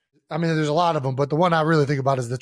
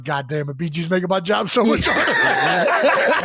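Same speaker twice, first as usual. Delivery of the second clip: laughing mock frustration; slower than usual. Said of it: "I'm like".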